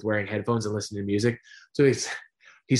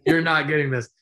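laughing emphasis; 5 semitones higher, 6 dB louder than usual. Real, not acted. Laughing joke about current rappers.

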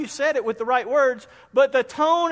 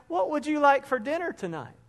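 gentle, softer asking; kind tone; 4 semitones higher, 4 dB quieter than usual. Shown as a demonstration. Husband greeting his wife at night, gently. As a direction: ask sweetly, like you care. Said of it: "that's one tone".

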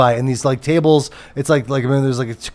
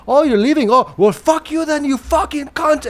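high-pitched mock yell; high, indignant imitation, cursing; Sammy yelling; 12 semitones higher than usual. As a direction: imitate an angry owner cursing out a departing customer. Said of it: "he starts yelling at them".

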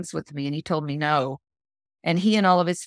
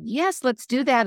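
drawn-out, higher retold enthusiasm; excited agreement; 6 semitones higher than usual. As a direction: imitate an eager yes, pitched up. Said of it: "she was so excited".

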